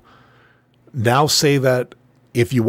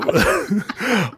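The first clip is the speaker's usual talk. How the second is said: kind gentle laugh; 7 semitones higher than usual. Real, not acted. Laughing at Raptor Jesus.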